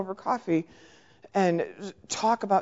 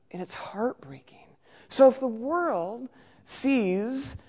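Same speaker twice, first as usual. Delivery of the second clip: whisper; 3 semitones higher, slower than usual. Real, not acted. Grieving over political behaviour.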